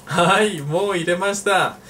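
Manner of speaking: bright high "Hai, mo iremashita"; cheerful answer role. Pretend. Teacher playing the answering partner, bright and high. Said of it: "answering in role".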